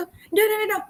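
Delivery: a hint of a cross customer; imitating a fed-up customer. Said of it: "Ada sekali dia kata".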